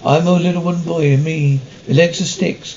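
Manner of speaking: put-on voice of a little wooden boy. Captain humouring crew who beg for the voice, hammed-up wooden boy. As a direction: play a puppet boy, badly. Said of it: "Do the wooden boy voice".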